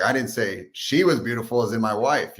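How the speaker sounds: she lifted, as the wife reads it; stress on she. Retold or imitated. Wife misreads husband's text, stressing she. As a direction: lean on she, imitating a misreading. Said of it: "she's reading it as like".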